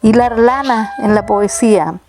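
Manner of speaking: poem recital. Acted. Elder recites her childhood poem for visitors, earnest and unhurried. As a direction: let each line unfold like a remembered landscape.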